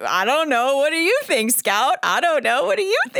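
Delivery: rising, clueless questions to Scout; unsure guessing voice. Retold or imitated. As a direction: toss it over, honestly lost.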